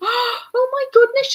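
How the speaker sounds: really high-pitched, bursting with glee. Talking about going on a crafting cruise in January, high-pitched and excited. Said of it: "I got really high pitched and excited then".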